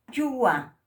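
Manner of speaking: "Chua" said loud and clear with a plain ch; plain ch model. Shown as a demonstration. Teacher modelling the plain ch in Aymara. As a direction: model "Chua" loudly for repetition. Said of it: "cuando se pronuncia la che limpia".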